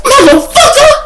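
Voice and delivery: very high laughing yell; friend's shocked laughing curse; laughing outburst. Retold or imitated. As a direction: blurt it out through laughter.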